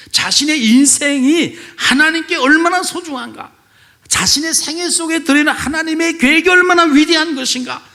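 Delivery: high, loud, building sermon climax; preaching at full force. Acted. Preacher proclaiming Jacob's new identity to the congregation, at full force.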